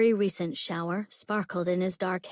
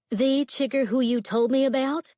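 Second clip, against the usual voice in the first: surprised question; 6 semitones higher, 4 dB louder than usual. A narrator's reading. Kathy asking in surprise.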